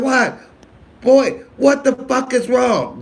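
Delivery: high stern mama, half laughing; mama's voice. Retold or imitated. Comedian imitating his mother scolding him, high and laughing. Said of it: "my mama didn't allow you to be no little punk".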